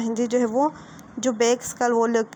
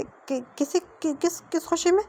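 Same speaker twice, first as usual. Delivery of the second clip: stammering, much higher, caught off guard; flustered stammer; 6 semitones higher, slower than usual. Acted. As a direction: trip over the words in embarrassment. Wing flustered by kiss request.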